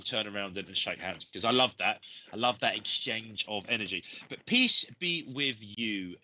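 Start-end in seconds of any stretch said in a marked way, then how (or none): 4.5-6.2 slow, gentle blessing. Real, not acted. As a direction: bless her slowly and warmly. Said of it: "blesses Jenny slowly".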